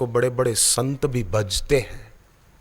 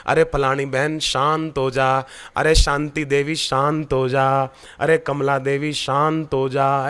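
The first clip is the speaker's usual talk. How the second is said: calming self-talk. Shown as a demonstration. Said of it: "अपना नाम लेकर मन में बोलना".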